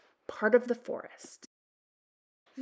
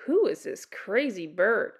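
wondering ravens. A narrator's reading. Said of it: "the other ravens wondered".

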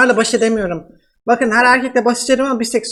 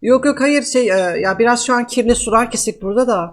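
man doing a woman's voice; 2 semitones lower than usual. Pretend. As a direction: fake Russian woman, broken Turkish. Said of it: "nasıl kadın sesi yapıyorum".

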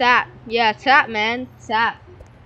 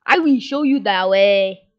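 louder put-on African accent; hammed-up African accent; 3 semitones lower, 5 dB louder than usual. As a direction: declare it in a mock African accent. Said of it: "talk my African accent".

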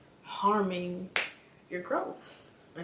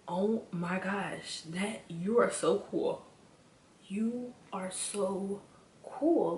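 gushing admiration; much slower than usual. Acted. Voices gushing admiration for eccentric people.

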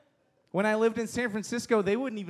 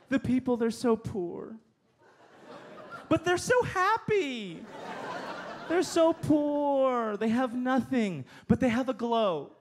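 higher, slow, dreamy mock of a condescending tourist; gushing tourist; 3 semitones higher, slower than usual. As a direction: swoon over the poor but happy locals, slow and higher. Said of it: "Have you heard people talk like this?".

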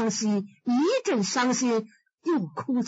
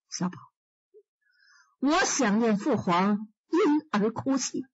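a hint of a grieving emperor, measured; sad emperor; 3 semitones lower than usual. Emperor Kangxi speaks.

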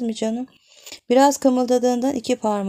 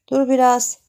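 urgent plea; 6 semitones higher, 8 dB louder than usual. Acted. Woman pushing him away.

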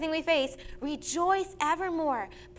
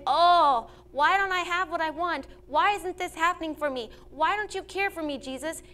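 loud wailing "Oh" then pleading, higher complaints; mock whining; 3 semitones higher, 3 dB louder than usual. Israelites complaining to Jesus, in a mock whine. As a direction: whine like a sulky child. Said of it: "Instead of looking like the Israelites and saying".

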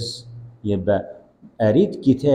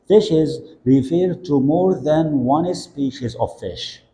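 very slow model definition; 4 semitones higher, much slower than usual. Shown as a demonstration. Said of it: "teacher models definition slowly".

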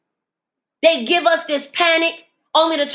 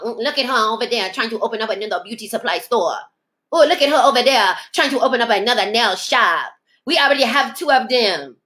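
mock envious gossip; 3 semitones lower than usual.

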